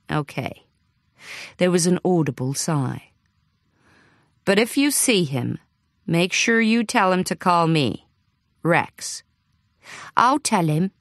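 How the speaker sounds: put-on lightly American accent. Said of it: "The caller had an American accent".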